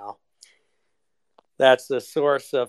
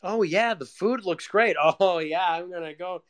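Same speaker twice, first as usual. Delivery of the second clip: fake small talk; 4 semitones higher than usual. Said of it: "the fucking crap you have to say".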